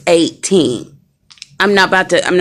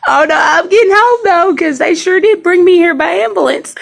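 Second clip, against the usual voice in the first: excited; 11 semitones higher than usual. Real, not acted. Excited joke about going home.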